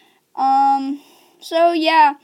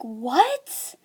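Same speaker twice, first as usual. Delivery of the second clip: softer, rising acted question; stunned disbelief; 3 semitones lower, 5 dB quieter than usual. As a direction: let the spoiler sink in, quietly questioning. Acts reaction to friend's spoiler.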